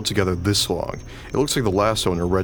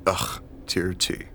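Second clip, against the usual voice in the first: whispered quote; 3 semitones lower, 4 dB quieter than usual. Retold or imitated. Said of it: "after you said".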